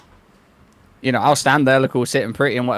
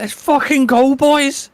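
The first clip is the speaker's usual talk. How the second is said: loud excited hype-man yell; hype shout; 11 semitones higher, 5 dB louder, slower than usual. Retold or imitated. Hype man coach cheering a kill.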